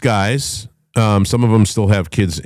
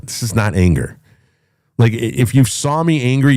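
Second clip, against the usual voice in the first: ordinary talk, nothing marked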